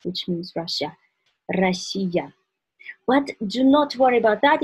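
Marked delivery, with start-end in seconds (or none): 1.5-2.3 "Россия" with a trilled first R; rolled R. Shown as a demonstration. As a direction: roll the Р at the start of "Россия". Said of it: "For example".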